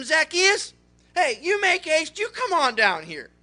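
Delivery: loud, high call up to a treetop. Acted. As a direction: summon him down from the tree. Jesus calls him down from tree.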